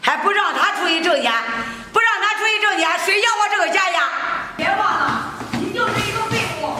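scornful nagging, pushing hard; harsh scolding. Acted. Mother-in-law berates the crying daughter-in-law, harsh scolding.

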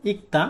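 "ইকতা" as ik-ta, with a t sound; demonstrated Korean pronunciation. Shown as a demonstration. Teacher giving learners the word's correct sound, demonstrated "ইকতা". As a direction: model "ইকতা" in two syllables, ik then ta. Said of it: "এই Korean শব্দটির সঠিক উচ্চারণ".

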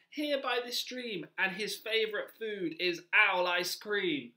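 high-pitched mouse voice; little mouse. Acted. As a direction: answer as a polite, squeaky little mouse. Mouse warns owl.

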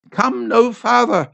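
bold cry. A narrator's reading. Old woman in ecstasy faces the priest, bold slow cry. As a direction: stand your ground boldly. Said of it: "she faced him boldly".

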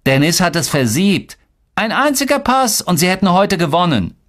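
put-on high-pitched accusing boy; piling on accusations. A narrator's reading. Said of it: "Boran fügte hinzu".

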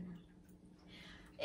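voiceless, very soft tag; whispered afterthought. Real, not acted. Vlogger disclaiming promotion of drinking, whispered afterthought. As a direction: let the word fall to a whisper.

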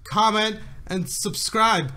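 overacted like a cheesy commercial; bad acting. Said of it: "why do you sound like a really bad actor".

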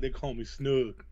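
Snug said with an "oo", like "snoog"; southern pronunciation of Snug. Retold or imitated. Southern visitor gives his nickname, Snug said as "snoog". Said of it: "I guess he pronounced it Snug".

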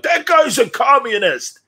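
hammed-up redneck accusation; mock yahoo. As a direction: sneer it like a paranoid yahoo. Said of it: "you had yahoos who are like".

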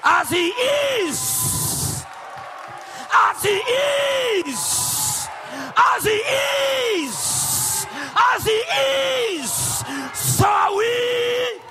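shouted, high sermon climax; full-force preaching. Acted. Preacher shouting to the congregation, full force. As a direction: preach it out loud to the crowd.

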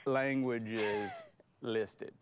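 put-on country accent. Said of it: "with a country accent".

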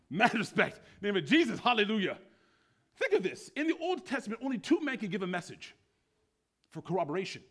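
high, loud exclaiming; bubbling over with enthusiasm; excited preaching. Real, not acted. Preacher exclaiming about Mary Magdalene, high and loud.

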